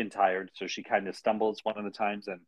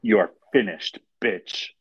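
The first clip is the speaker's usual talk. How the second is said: menacing threat; 6 dB louder than usual. Retold or imitated. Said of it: "this is what she said".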